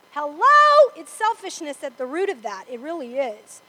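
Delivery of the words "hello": much higher, loud Hello; a sharp, loud preacher's Hello; loud wake-up call. Real, not acted. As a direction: call out to snap them to attention. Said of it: "preacher calls out to the congregation".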